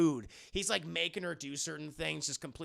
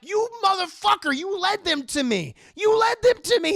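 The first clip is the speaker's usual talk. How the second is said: high, loud, escalating accusation; hammed-up fury; 13 semitones higher, 12 dB louder than usual. Dracula accusing Renfield, furious high shouting. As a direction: rage at the servant who betrayed you.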